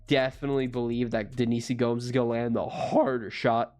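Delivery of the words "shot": voice cracking. Real, not acted. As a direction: voice cracks on the word. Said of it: "voice cracked".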